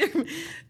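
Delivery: sputtering laugh, choking on a drink. Real, not acted. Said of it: "choking on my drink over here".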